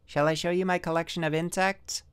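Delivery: put-on boy asking his father through the door, high and soft; little boy. A narrator's reading. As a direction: ask shyly like a small boy.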